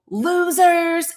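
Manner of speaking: high-pitched jeering cry; mocking all-caps yell. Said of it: "I just wanna say it in that voice again".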